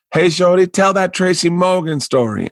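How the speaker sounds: Tony Woods. Retold or imitated. Friend in the back requesting a story, imitated calling out. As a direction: call out a request to the stage.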